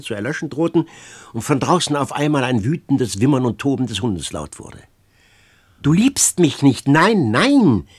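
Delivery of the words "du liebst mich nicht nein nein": loud, higher cry, beside herself. A narrator's reading. Girl crying out to her lover, beside herself. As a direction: cry it out, frantic. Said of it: "rief sie wie außer sich".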